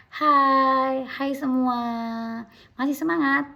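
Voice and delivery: high, loud, cheery hello to the crowd; friendly greeting. Shown as a demonstration. Lecturer demos greeting an audience warmly, bright and high. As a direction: greet them brightly and pump them up. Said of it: "Nah, contohnya seperti itu".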